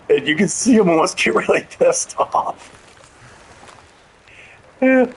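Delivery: laughing through the line; chuckling as the words come out; giggling while telling the story. Real, not acted. Laughing retelling the senator's anger.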